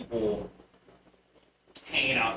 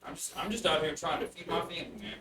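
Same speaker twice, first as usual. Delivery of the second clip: put-on bugbear child voice; 2 semitones higher, faster than usual. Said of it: "a small little bugbear child".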